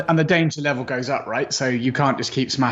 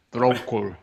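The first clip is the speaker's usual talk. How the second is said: lower, put-on Russian voice; mock Russian accent; 4 semitones lower than usual. Shown as a demonstration. Co-host showing which accent was meant, Russian accent. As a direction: lightly repeat it in would-be Russian. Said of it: "That was supposed to be Russian".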